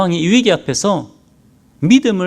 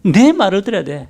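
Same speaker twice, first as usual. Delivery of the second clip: Satan's warning; 3 semitones higher than usual. Retold or imitated. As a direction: lean in like a tempter scolding. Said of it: "사탄이 그래요".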